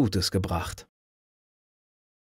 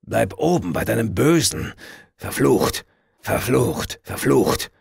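put-on shrieking drunken curses; screeching curse; slower than usual. A narrator's reading. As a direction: screech after him as he leaves. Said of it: "kreischte er hinter mir her". (kreischender Fluch)

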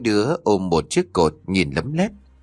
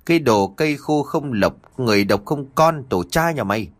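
scolding mother-in-law; 3 semitones higher than usual. Acted. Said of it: "ra sức mắng chửi con Thỏa".

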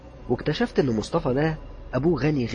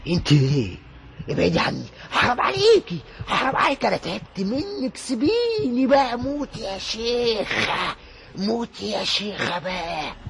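much higher and much louder, desperate pleading; terrified young man screaming; 11 semitones higher, 6 dB louder, slower than usual. Acted. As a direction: scream at the ghost begging it to die. Youth cursing the unseen woman. (شاب مرعوب بيصرخ في العفريت بصوت عالي جدًا)

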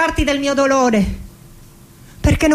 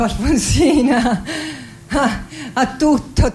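laughing; slower than usual. Acted. Laughing over her own name.

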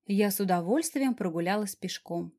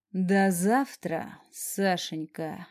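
mock tender coo; 2 semitones lower, much slower than usual. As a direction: purr the name with fake affection. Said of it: "притворно ласково проворковал".

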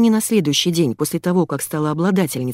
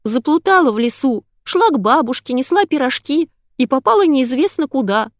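put-on high, louder child's plaint; fake little girl voice; 8 semitones higher, 4 dB louder than usual. Mother keeps fooling her son in a high child's voice. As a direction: play the lost little girl from the fairy tale. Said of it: "запищала я".

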